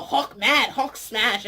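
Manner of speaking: a hint of Hulk, laughing. Vlogger lightly mimicking Hulk's catchphrase, laughing. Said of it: "he's all".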